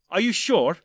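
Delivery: loud, high disbelieving question; indignant challenge. Acted. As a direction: fire it back in disbelief. Indignant doctor challenging his elder.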